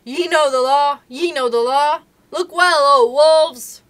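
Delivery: loud high call, slowing on the last; crying out. Acted. Akela calling the pack from his rock, loud cry. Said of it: "would cry".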